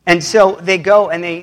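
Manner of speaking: usual speaking voice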